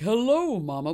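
goofy monster husband greeting; lightly voiced cartoon dad; deep monster dad voice. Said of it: "his voice was like".

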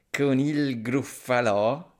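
slow, sly snake voice, a curious rise. Acted. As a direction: stretch the question like a wary snake. Snake asks about gruffalo.

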